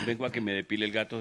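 put-on old lady voice. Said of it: "Imagina la señora".

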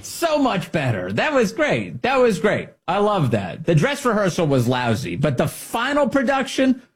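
high-pitched effusive approval; mock gushing praise. Host praising the secretary's redone video, exaggerated delight. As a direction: gush like a delighted critic.

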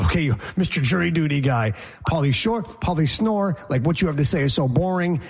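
mocking a boring guy; demeaning mockery. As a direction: belittle him with a sneer. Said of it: "demeaning in a sense of".

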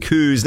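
"Coos" with a long oo vowel; Scottish pronunciation. Shown as a demonstration. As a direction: say "Coos" the Scots way, rhyming with moos. Host says cows the Scottish way.

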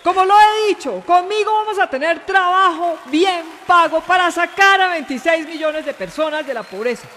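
punchy rally oratory; hammed-up campaign vehemence; vehement public-square speech. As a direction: hammer each phrase to a crowd in the square. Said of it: "yo la quiero más vehemente como en plaza pública".

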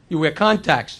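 put-on low, soft Polish accent; deadpan Polish-accent answer. Polish applicant makes his observation to the interviewer, low Polish accent. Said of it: "Polish guy says".

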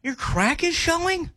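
high, drawn-out questioning disappointment; disappointed. Shown as a demonstration. Not mad at them, just disappointed. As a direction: slowly lift it into a let-down question. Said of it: "I'm just disappointed".

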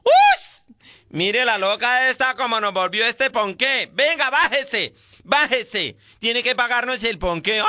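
slow, hammed-up campy outrage with a shrill cry; mocking queens scolding the taxi driver, campy and slow; flamboyant gay caricature. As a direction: camp it up, scandalized and drawn out. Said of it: "Y empieza en esas locas".

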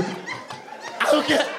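high-pitched mock tantrum scream; retold child's scream. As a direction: wail in protest like a beaten kid. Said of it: "I would scream".

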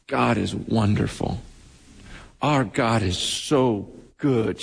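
low, unhurried, reverent quote; tearful patient's praise. Retold or imitated. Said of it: "first thing out of her mouth".

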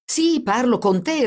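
smiling. A narrator's reading. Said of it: "ripeté il carabiniere sorridendo".

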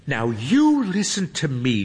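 a hint of a stern girl; mildly scolding high voice. A narrator's reading. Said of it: "Hermione says sternly".

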